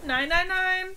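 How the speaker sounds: loud, high, different voice crying no; frantic protest. Acted. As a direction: throw yourself in his way with it. Servant blocks the prince.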